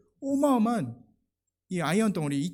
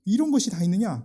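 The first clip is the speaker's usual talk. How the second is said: shouting Goliath; 4 semitones higher, 7 dB louder than usual. Retold or imitated. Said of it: "이 소리를 치는 거예요".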